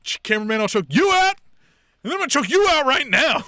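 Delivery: high, loud imitation of unhinged threats, building; mock screaming. Retelling a wrestler threatening the cameraman, mock screaming. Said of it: "her screaming, wailing".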